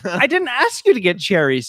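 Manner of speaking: lightly voiced daughter pushing back, not yet fed up; annoyed daughter. Daughter telling her dad she never asked for the cherries, mildly annoyed. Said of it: "She's like".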